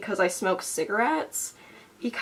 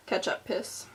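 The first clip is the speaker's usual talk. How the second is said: whispered band name; 9 dB quieter than usual. Shown as a demonstration. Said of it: "That's the name of my band".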